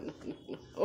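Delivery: whispered coaxing to a pet. Real, not acted. Owner whispering to Koko to take the toy, whispered coax. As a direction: whisper the offer to the dog.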